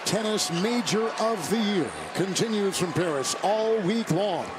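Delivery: measured broadcast promo read. Real, not acted. Announcer tells viewers about French Open coverage, promo read. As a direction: read it as a smooth network promo.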